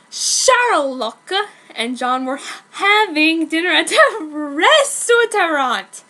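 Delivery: slow, giggling read-through; fighting back laughter; trying not to crack up; laughing while reading. Real, not acted. Reading own fanfic, laughing.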